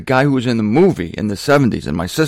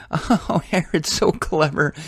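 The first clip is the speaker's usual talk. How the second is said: high, gushing put-on voice, a fan cooing over Herod; mock gushing admirer; 5 semitones higher, slower than usual. Worldly audience member praising Herod, in a high mock-gushing voice.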